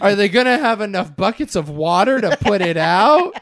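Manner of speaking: laughing through a sarcastic question; mock concern, laughing. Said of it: "just sarcastic ass text message".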